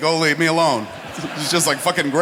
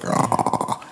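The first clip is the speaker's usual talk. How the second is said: open-mouth ah. Shown as a demonstration. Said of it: "you gotta Kev Smith your mouth, like".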